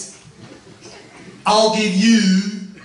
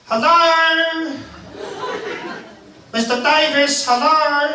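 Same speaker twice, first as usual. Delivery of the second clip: calling out; 6 semitones higher, slower than usual. Acted. Pilot calls out across farmyard.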